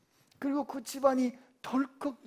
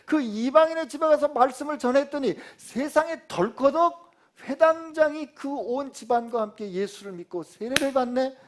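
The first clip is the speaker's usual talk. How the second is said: usual speaking voice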